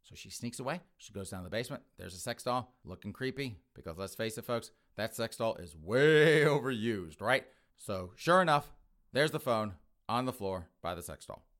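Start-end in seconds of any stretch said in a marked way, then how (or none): 5.8-6.4 WAY drawn out long and loud; stretched emphasis. Real, not acted. Comic stressing how overused the doll is, WAY drawn out.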